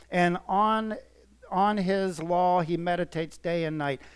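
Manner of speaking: measured, lifted reading of a psalm; scripture reading. Acted. Preacher reading Psalm one to his congregation, lifted and measured. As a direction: read it out like holy words to the flock.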